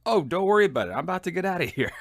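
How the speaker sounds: high, loud start, then quickening; breezy reassurance. Retold or imitated. Soldier answers platoon sergeant's phone call, high breezy reassurance. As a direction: brush the question off as no problem.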